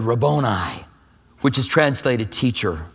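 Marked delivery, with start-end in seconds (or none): 0.0-0.8 hushed recognition. Acted. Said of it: "She turned around and said".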